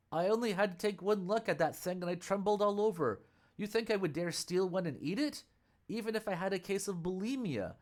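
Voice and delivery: a frightened monk swearing he's innocent; protesting monk. Acted. Tang monk denies the theft.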